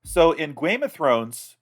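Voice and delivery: burp through the words; talking through a burp. Real, not acted. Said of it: "sorry, now I'm burping".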